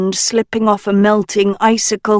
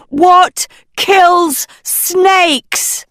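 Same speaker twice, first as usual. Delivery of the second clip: much higher, slow, loud shout; 11 semitones higher, 5 dB louder, much slower than usual. Acted. Agatha shouting the question into the cave. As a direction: call it out into the cave. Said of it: "Agatha shouted into the cave".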